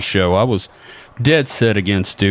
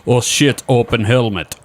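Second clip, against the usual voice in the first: goofy Soviet cosmonaut; 3 semitones higher than usual. Retold or imitated. Acted Soviet cosmonauts on moon.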